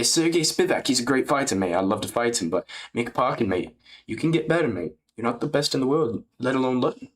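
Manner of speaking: put-on British fighter voice; middling British impression; chatty mock British heavyweight; Aspinall. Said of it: "I have a mid Aspinall impression".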